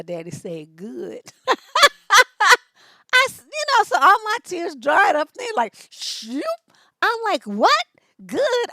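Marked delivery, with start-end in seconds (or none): 1.3-2.6 loud laugh. Real, not acted. Laughing at dad's answer. 3.1-7.4 high, loud words through laughter; laughing while talking. Real, not acted. 7.4-7.8 high, loud, incredulous protest; can't believe dad said Good; indignant disbelief. Retold or imitated. Indignant retort to father. 8.2-8.7 Good. thrown back high and loud in disbelief; incredulous echo. Retold or imitated. Echoing dad in disbelief.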